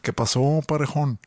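lightly put-on Juárez accent. Repeating the Narcos greeting to a puzzled co-host, in a Juárez accent. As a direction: imitate the Juárez way of talking. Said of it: "el acento".

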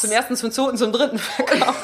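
laughing auctioneer call. Pretend. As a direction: sell her off like an auction, laughing. Jokingly auctions off drunk woman.

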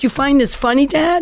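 high-pitched mock indignation; indignant. Daughter to laughing dad on the phone, indignant. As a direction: protest to the one laughing at you.

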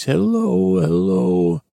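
put-on high-pitched voice of a crashed space boy; high, put-on little visitor voice; blubbering stranger's voice. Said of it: "in that same voice".

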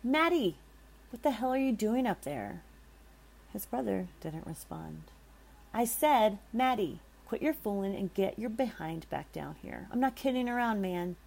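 loud, high calling up the stairs; at the top of his voice. Acted. John yelling up the stairs for his brother, loud. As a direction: yell up to the missing brother. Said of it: "at the top of his voice".

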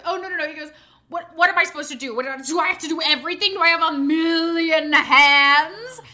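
a kid acting like an overworked star; loud theatrical four-year-old outrage; indignant kid.

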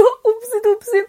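high, slow mocking echo. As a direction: throw his oops back at him. Mocking his oops back. (spöttisch, hoch und langsam nachgeäfft)

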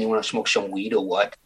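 laid-back Dutch-accented English; Amsterdam accent. Shown as a demonstration. Actor demonstrating an accent to the interviewer, Amsterdam accent. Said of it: "type of Amsterdam accent".

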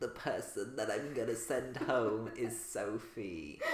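quiet, slow, feeble sick voice. Retold or imitated. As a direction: fake poorly croak. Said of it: "she puts on proper sick voice".

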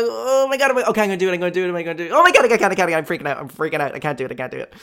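high, loud hammed-up panic, fading to the end; a comic meltdown that runs out of steam; mock freak-out. Imagined self freaking out.

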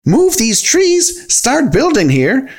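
very high, slow, incredulous outrage; outraged cry. A narrator's reading. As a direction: stretch out each shocked question high. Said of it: "jumping up and down in a purple rage".

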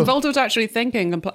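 talking through chocolate; words round a mouthful of chocolate; mouth full. Real, not acted. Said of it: "sorry, I'm eating chocolate".

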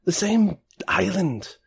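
high-pitched, friendly grandpa voice; friendly old man. Acted. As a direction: play a kindly old man, pitched well up. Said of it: "like, kinda grandpa thing".

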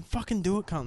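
imitating a taunt, pitch lifted; retold goading dare. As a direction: egg him on, retelling it. Same retold dare, repeated.

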